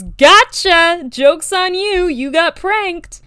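dead people popping up to prank everyone; mock prankster. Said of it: "and goes".

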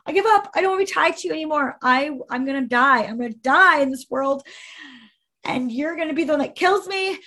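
retold screaming. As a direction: scream it out at the end of your rope. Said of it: "screaming at the top of my lungs".

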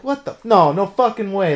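can't believe what you just saw on screen; high, loud disbelieving outburst; stunned disbelief. Retold or imitated. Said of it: "And you're just like".

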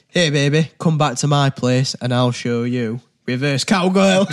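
loud Yorkshire come-on; Yorkshire accent. Shown as a demonstration. Player delivering the punchline card to friends, loud Yorkshire accent. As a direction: belt the chat-up line out in Yorkshire. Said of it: "In Yorkshire".

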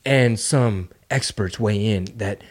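lightly hammed-up cable news voice; mock news anchor. Mocking CNN on the podcast, a hammed-up anchor voice. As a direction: parody a pundit on air.

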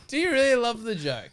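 can't believe he means it; laughing friend doubts his love of the joke; incredulous. Real, not acted. Incredulous reply to friend's claim.

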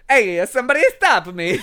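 Italian-dubbed Mask. Acted. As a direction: toss it out in Italian accent. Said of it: "Italian dub of The Mask".

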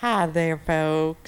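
Southern hillbilly twang; hillbilly accent. Real, not acted. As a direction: greet them in a country hillbilly accent. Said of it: "I love that fucking accent".

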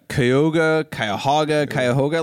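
Cuyahoga said three different ways, Cuyahoga vs Cuyahoga; Cuyahoga variants. Shown as a demonstration. Ohio native unsure, trying Cuyahoga each way. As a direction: try each Cuyahoga reading in turn. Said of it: "some people say it's".

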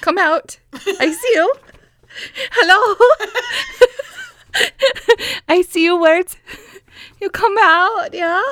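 high coaxing call; calling someone home. Pretend. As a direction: coax them out like a pet. Coaxing words out of mouth.

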